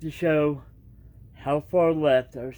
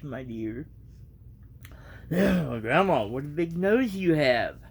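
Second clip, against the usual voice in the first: reading a storybook aloud, evenly; casual storybook reading; story narration; 2 semitones higher than usual. A narrator's reading. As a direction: tell the tale to your viewers.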